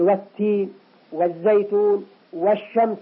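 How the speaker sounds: doubled first consonants in "والتين", "والزيتون", "والشمس"; sun-letter assimilation. Shown as a demonstration. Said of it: "أدغمنا الألف واللام ولم تظهر". (إدغام لام "والتين" و"والزيتون" و"والشمس")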